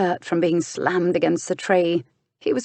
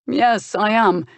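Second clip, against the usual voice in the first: agreeable; 4 semitones higher, 4 dB louder, slower than usual. Acted. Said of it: "was Bran's agreeable answer".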